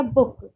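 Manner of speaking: बुक with the closing क hit hard; बुक, weight on the last consonant; stress on final क. Shown as a demonstration. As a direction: punch the k sound that ends बुक. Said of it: "के पे stressed आ रहा है".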